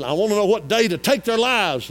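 loud mock-villain demand; forceful demand. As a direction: call it out loudly as a villain's demand. Acting out Haman's murderous demand.

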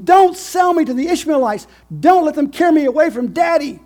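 very high, loud desperate begging; pleading Joseph. Acted. Joseph begging his brothers not to sell him, high and desperate. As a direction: beg like a terrified boy. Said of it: "he was pleading with them".

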